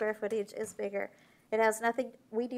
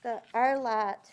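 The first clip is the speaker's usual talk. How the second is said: muffled by mask; 4 dB louder than usual. Real, not acted. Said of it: "I can barely breathe in this mask".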